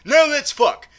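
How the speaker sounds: loud, high punchline; acted eager proposal. James Bond answering Swan's "Now what", mock eager blurt. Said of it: "James Bond is like".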